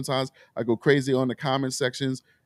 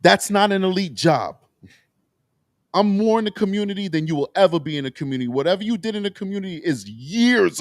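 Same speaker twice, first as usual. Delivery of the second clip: raised, indignant and fast on the second line; real upset; 4 semitones higher than usual. Real, not acted. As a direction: throw it back at her, offended. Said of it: "I'm getting upset".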